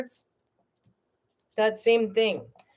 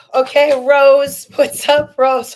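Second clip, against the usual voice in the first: loud, higher, happy hello; big, pitched-up welcome; excited greeting; 6 semitones higher, 9 dB louder, slower than usual. Real, not acted. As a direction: call out to a friend who just turned up. Greets a viewer who turns up.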